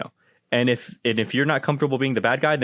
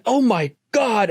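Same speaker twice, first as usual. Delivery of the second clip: high, drawn-out mock outrage; shocked mom; 9 semitones higher, slower than usual. Mom suddenly notices dog near her kids, high drawn-out imitated shock. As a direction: imitate a mother suddenly aghast.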